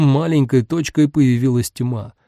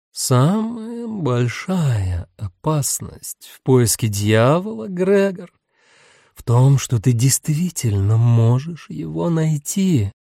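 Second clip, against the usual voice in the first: a hint of a lazy demon drawl; slower than usual. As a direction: stretch the words out lazily. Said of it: "Лилит лениво растягивала слова".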